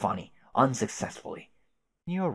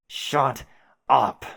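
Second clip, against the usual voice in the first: short, loud angry order; angry shut up; 3 semitones higher, 7 dB louder than usual. Acted. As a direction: snap it at the voice in his head. Caliborn snaps at the voice.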